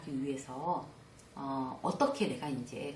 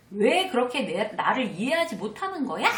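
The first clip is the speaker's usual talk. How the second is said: louder, higher exasperated yell; 4 semitones higher, 5 dB louder than usual. Shown as a demonstration. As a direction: shout it like a frustrated spouse. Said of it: "이렇게 막 소리 지르고".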